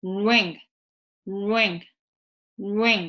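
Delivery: "ring" entered through a rounded "う"; muffled English R. Shown as a demonstration. Teacher drilling ring for learners, muffled R. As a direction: pucker first so the R of "ring" sounds muffled. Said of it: "こもった音になるので".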